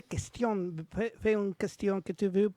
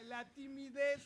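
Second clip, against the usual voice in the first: laughing; 4 semitones higher, 13 dB quieter, much slower than usual. Real, not acted. Teacher laughs at shy students.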